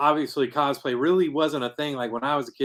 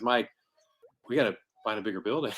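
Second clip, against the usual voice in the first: hushed retold aside, lower and softer; imitated whisper; 4 semitones lower, 5 dB quieter, faster than usual. Organizer confides to the host about needing more space, imitated whisper. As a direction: quote it low and soft, as if into an ear. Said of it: "he whispers in my ear".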